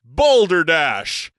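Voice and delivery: a startling hearty outburst; surprising cry. Acted. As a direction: blurt it out with gusto. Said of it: "cried out in a voice that surprised everyone".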